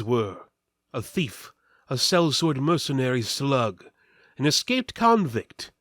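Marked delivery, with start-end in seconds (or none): none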